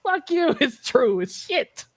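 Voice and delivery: high-pitched, indignant comeback; defiant retort. Retold or imitated. Host re-enacting his comeback to angry fans, mock defiance. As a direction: throw the retort back with mock outrage.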